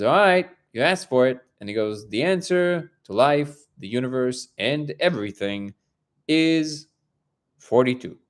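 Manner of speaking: milk the suspense before the big number; dramatic buildup. Retold or imitated. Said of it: "this whole buildup".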